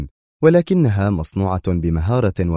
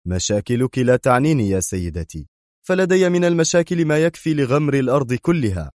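mildly sharp retort, pitch climbing as it goes on; sharp interruption; 5 semitones higher than usual. Acted. Bruce cutting off a woman caller, mildly sharp. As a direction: cut the caller off, testily. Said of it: "قاطعها بروس في حدة".

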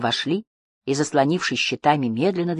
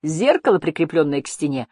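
crying out; 3 semitones higher, 4 dB louder than usual. A narrator's reading. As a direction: shout a sudden alarmed discovery. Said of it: "крикнул он".

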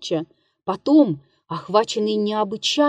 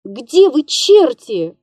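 calling out; 4 semitones higher, 7 dB louder, slower than usual. A narrator's reading. Calling stagehands in dark.

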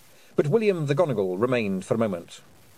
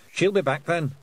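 Scottish pixie voice; 7 semitones higher, 3 dB louder than usual. Acted. Feegle voice.

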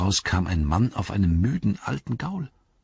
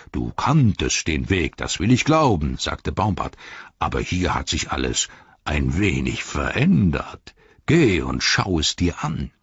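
Treebeard; 4 semitones lower than usual. Acted. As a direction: let the words rumble out low and unhurried.

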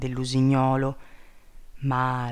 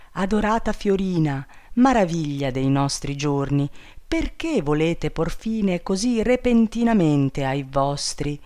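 tender bird king. Acted. Enchanted bird king consoles captive princess, tenderly. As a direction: soothe her with devoted tenderness.

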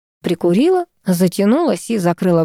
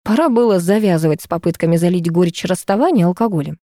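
usual speaking voice

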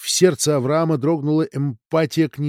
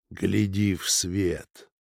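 slow hypnotic command; 5 semitones lower, 4 dB quieter, much slower than usual. Acted.

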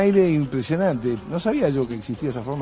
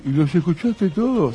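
laughing question; 5 semitones higher than usual. Retold or imitated. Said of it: "agarra y dice".

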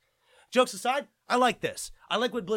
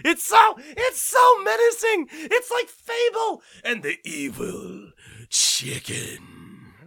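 much higher, much louder, slow sarcastic outburst; mock dramatic awe; 10 semitones higher, 7 dB louder, much slower than usual. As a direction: ham up how scary the kitten is, loud and high.

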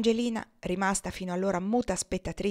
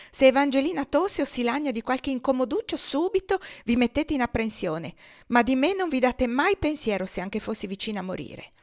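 higher, louder petulant complaint; aggrieved wife; 7 semitones higher, 5 dB louder than usual. Acted. Wife reproaching husband for neglecting her, higher and louder whining. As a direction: whine like a neglected invalid wife.

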